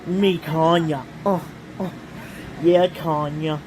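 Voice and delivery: lightly voiced crooning lover, moaning uh and oh; sultry banana man. Calling Tanya as her banana man, a hint of mock seduction. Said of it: "That's your banana man".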